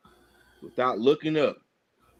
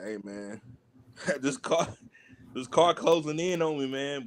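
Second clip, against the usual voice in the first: stir crazy; 3 semitones lower than usual. Retold or imitated. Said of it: "stir crazy moment".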